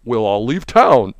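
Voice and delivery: slow mocking impression of the senator; Mitch McConnell impression. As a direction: drawl it like McConnell. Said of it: "And he goes".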